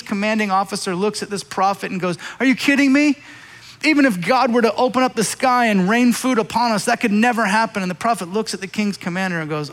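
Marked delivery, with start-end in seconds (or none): 2.4-7.8 raised, louder disbelief; incredulous scoffing. Acted. King's officer to the prophet, incredulous and scoffing. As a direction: scoff at an impossible promise.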